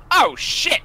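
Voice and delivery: high, loud startled cry of alarm; startled yelp. Acted. Shopkeeper yelps as the wand misfires, startled high cry. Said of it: "this guy goes".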